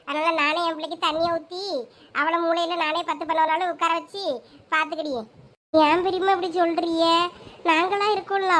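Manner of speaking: usual speaking voice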